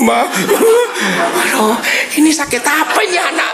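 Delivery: high, exasperated cry to the wife; exasperated parent. Retold or imitated. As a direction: throw up your hands at the kid. Parent fed up with child.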